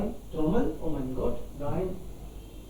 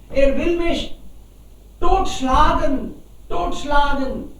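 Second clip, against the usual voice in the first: dog's dismay; 4 semitones higher, 4 dB louder than usual. Acted. Dog complains of master.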